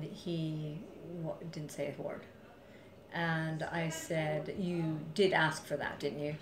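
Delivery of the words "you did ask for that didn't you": calm, level accusation; matter-of-fact. Retold or imitated. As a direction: state it like a plain fact. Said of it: "very matter-of-factly".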